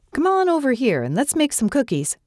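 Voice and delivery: a hint of an eager grandmother; welcoming grandma. A narrator's reading. Grandma welcomes child in story.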